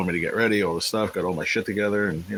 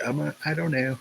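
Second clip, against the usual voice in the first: squeaky high voice for a puzzled emoji; voicing an emoji; 8 semitones higher than usual. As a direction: give the emoji a high, silly little voice. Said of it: "It's like".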